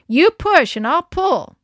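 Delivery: rally her partner; urging. A narrator's reading. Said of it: "Kelsey urged".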